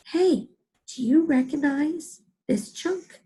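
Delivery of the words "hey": mock surprise. Teacher discovers a chunk.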